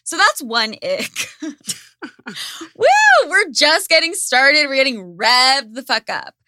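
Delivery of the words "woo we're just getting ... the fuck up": excited whoop. Real, not acted. Hyping herself up.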